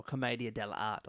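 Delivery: commedia dell'arte with final E silent, dell-ART; alternative pronunciation. Shown as a demonstration. Cohost offering pronunciations, commedia dell'arte cut to dell-ART. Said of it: "how to pronounce it properly".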